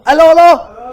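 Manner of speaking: loud, high burst of recognition; excited exclamation. Real, not acted. Host remembering the sitcom's title, excited exclamation. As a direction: call it out excitedly, pitched right up.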